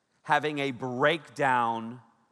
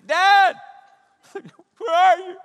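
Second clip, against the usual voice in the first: faint call; 11 dB louder than usual. Retold or imitated. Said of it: "real faint".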